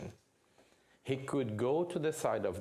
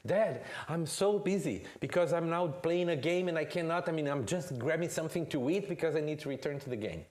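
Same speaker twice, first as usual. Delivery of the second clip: put-on busy gamer kid; 5 semitones higher, faster than usual. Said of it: "he says".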